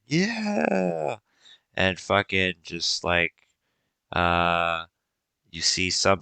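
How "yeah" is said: loud, high, rising with the crowd; excited cheer. Acted. Game master tells the players the crowd cheers, loud and excited. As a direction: sweep everyone up in the cheer.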